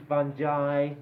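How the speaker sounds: FUNGI said FUN-jie, soft g, eye ending. Shown as a demonstration. Teacher demos fungi as fun-jie. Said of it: "many pronunciations".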